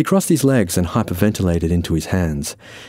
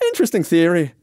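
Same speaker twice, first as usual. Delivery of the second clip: higher, light character voice; Irishman, unruffled; 9 semitones higher, faster than usual. Acted. Irishman replies to Francis's accusation, unruffled. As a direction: toss it off, unbothered.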